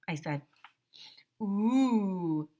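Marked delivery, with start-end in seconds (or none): 1.4-2.5 sing-song teasing ooh. Acted. Ryan teasing AJ and Andrea. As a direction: tease the pair. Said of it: "Ryan said".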